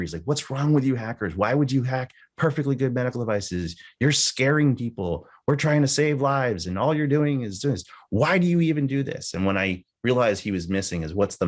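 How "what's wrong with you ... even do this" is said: angry official. Retold or imitated. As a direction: voice the irate FDA man scolding the hackers. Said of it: "he was so angry".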